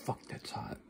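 breathless whisper through hot food; whispered curse. Real, not acted. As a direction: hiss it out, mouth burning. Burning mouth on hot food.

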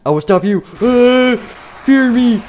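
very high, loud battle screams; raging Shadow Freddy. Acted. Shadow Freddy screaming threats at everyone. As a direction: shriek threats, swinging wildly. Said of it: "He's like".

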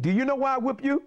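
lightly voiced high principal; imitating the principal. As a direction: question the pupil as the principal. Principal questions whipped pupil.

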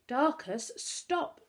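high, loud command to stop; sharp call to stop a running friend; firm order. A narrator's reading. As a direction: order him to halt. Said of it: "Virginia ordered".

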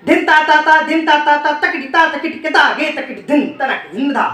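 syllables rolled off fast in one breath; rapid bol recitation. Shown as a demonstration. Teacher showing fast bol recitation, rapid chant. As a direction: rattle through the whole bol quickly. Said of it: "पहले बोलना सीखिए".

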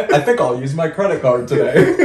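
lightly hammed American caricature with laughter; amused imitation of a comic's white-guy voice; mock white American. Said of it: "he makes fun of white people".

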